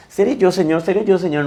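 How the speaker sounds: lightly voiced disciples asking in turn; anxious disciples' question.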